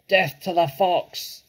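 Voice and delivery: slow, high war cry; shouted. A narrator's reading. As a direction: shout it as a drawn-out battle cry. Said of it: "shouted Bunce".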